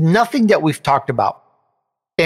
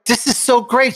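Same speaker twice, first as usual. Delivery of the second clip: delighted quote; 8 semitones higher than usual. Retold or imitated. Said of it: "And she was like".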